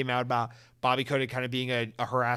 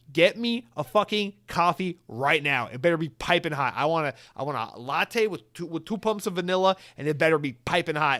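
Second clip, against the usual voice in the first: louder mock boss giving orders; bossy demand; 3 semitones higher, 4 dB louder than usual. Xbox boss ordering the bought CEO to fetch coffee, bossy. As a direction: order them about, hitting each demand.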